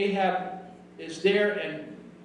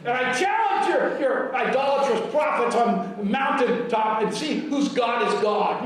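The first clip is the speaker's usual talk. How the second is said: bold, forceful challenge, voice lifting on the accusation; preacher acting out a defiant prophet; 3 semitones higher than usual. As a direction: throw down a confident challenge. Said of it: "Elijah's boldly said".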